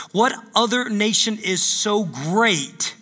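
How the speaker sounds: slow, deliberate reading of scripture. Shown as a demonstration. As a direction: read each word slowly and weightily. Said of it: "I'm gonna read this one more time".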